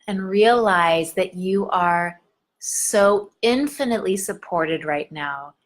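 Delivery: calm meditation guide, unhurried; gentle guided meditation. Acted. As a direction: ease them down into their body. Guides a body-awareness moment.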